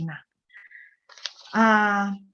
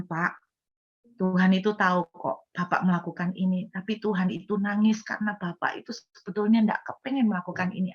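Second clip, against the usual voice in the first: wrapped in love. Shown as a demonstration. Preacher shows how to approach a sinner, gentle and loving. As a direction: break hard news with compassion. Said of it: "Cara yang kedua ada dibalut dengan kasih".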